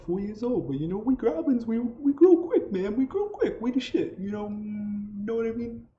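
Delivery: high, loud goblin voice with a laugh; Jabu's voice. Pretend. Teacher improvises as Jabu to show freeform speaking, high goblin voice. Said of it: "pretend you're Jabu".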